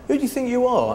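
loud, high confrontational jab; aggressive challenge. Retold or imitated. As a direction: square up to him with a loud jeer. Rude guy escalates the row.

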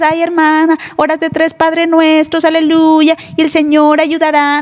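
lightly mocking high churchy tone; mock pious sister. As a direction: parody a preachy sister's advice. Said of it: "no es de que digas".

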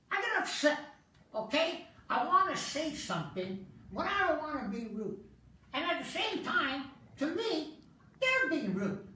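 earnest nerd voice, prim and careful; a fussy nerd lecturing the crowd on respect; nerdy character. Acted. Mild nerdy put-on voice.

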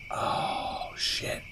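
whispered. Real, not acted. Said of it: "stunned by the ending".

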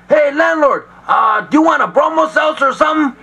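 high, quick, nervous offer; nervous stalling. Acted. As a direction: rush it to buy time.

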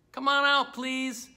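high-pitched coaxing call, softening on the plea; playful pleading call; calling out coaxingly. Pretend. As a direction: coax shy little creatures out of hiding. Coaxing hidden puppet birds out.

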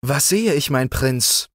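high surprised call of the green frog; the green frog, amazed to find the prince waiting. Acted. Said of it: "rief er".

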